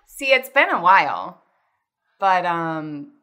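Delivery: shaky amateur attempt at British accent; hesitant put-on British accent. Shown as a demonstration. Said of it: "It's fun to change your voice".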